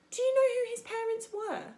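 put-on a touch of a suspicious old goose. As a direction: scold like a wary old bird. Goose character voice.

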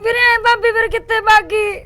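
speaking through tears; frightened mother, near sobbing; crying. Acted. Sister telling her brother about the call, crying.

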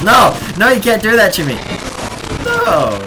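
loud, high anguished no; dismayed shouting. Real, not acted. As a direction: cry out in dismay. Zombie breaks through, protest.

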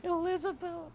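Elizabeth squealed very high and drawn down; cartoon falsetto Elizabeth; squeaky high name. Shown as a demonstration. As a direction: shriek Elizabeth in a silly falsetto. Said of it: "That's a pretty good one".

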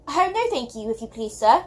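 lightly voiced shy girl faltering over Oh, no, thank you; stammering. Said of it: "Sophie stammered".

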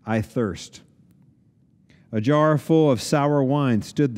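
measured, solemn reading of the Gospel; scripture reading. Acted. Pastor reading the Passion to the congregation, solemn and measured. Reads the Gospel passage aloud.

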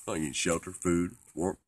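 loud, punchy list of needs; emphatic declaration. Pretend. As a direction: declare each item loudly. Lists the basic needs emphatically.

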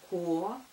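spelled in pieces; dictating. Shown as a demonstration. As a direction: say «Ко-н-ц-р-т» in separate written parts. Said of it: "Пишу". (диктует по буквам)

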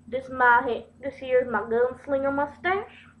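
lightly put-on old West accent; Western gunslinger drawl. Vlogger modeling a fake mustache, mock gunslinger accent. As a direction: play at being a Southern-accented gunslinger. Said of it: "an old Western gunslinger".

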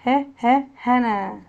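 "ه، ه" as short beats, then "هنا"; phonics drill. Shown as a demonstration. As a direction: sound out H twice before "هنا". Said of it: "هنوصل كلمات حرف ال H". (تدريب صوتي: "ه، ه" منفصلة ثم "هنا")

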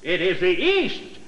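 slow, overblown Shakespeare recital; milk every word like a ham actor; hammy Romeo. Acted. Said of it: "take that line again".

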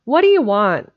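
loud answering holler; calling back. Acted. Specs answers Jimsy's call from outside, calling back. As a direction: holler back across the yard.

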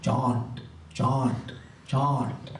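imitated Bengali-accented English; heavy Bengali accent. Speaker quoting his teacher's English, imitating a Bengali accent. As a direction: say each word separately in a Bengali accent. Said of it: "he had a very heavy Bengali accent".

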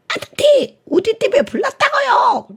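put-on a tongue-tied child repeating the call; lisping little kid. The child repeats it to the firefighter, high lisping plea. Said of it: "이 아이가 혀가 짧아".

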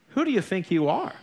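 retold scolding challenge; indignant rebuke. Woman rebukes preacher for mocking a singer, indignant. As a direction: put him in his place, as retold.

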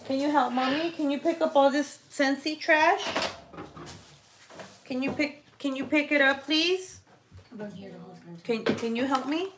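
coaxing. Real, not acted. Mother coaxing her son.

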